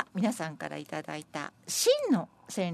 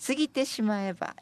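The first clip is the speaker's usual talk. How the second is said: measured verse reading; senryu recitation; 4 semitones higher than usual. Acted. Presenter reading senryu on fleeting New Year, measured recitation. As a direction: give the poem clear, separate phrases.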